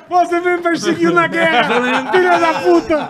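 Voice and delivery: slow, high-pitched mock outrage; mock accusing yell. Joking co-host accuses Schroeder of wartime persecution, hammed-up high wail. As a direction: wail it high, dragging the words out.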